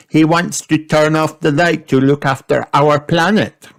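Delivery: put-on high little girl voice; girl explaining for her brother; Peppa explaining. A narrator's reading. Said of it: "explained Peppa".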